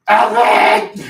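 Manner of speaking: long, loud holler of a name; shouted name. Acted. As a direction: call it out at full volume. Calling out Alfred's name loudly.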